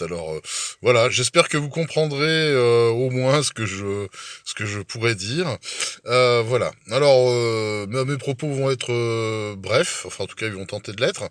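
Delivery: numb mouth after dental work; numb from the dentist. Real, not acted. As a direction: talk through a numbed mouth. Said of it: "je vais peut-être avoir une élocution un peu spéciale ce soir".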